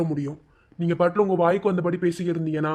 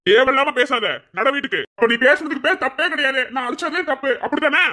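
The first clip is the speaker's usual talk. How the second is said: angry retort; 4 semitones higher than usual. Acted. Husband orders arguing wife home.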